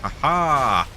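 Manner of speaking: put-on, not entirely good German accent. Gamer narrating moves to foes and self, mock German accent. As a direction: play it with a hammy German accent. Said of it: "I don't know why I'm German".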